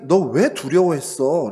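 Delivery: a scolding question, slowed down; a father's firm reproach; stern rebuke. Retold or imitated. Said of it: "라고 책망하시면".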